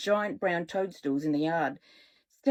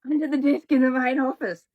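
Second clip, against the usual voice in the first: urgent order; 5 semitones higher, 5 dB louder than usual. Acted. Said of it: "back to normal voice".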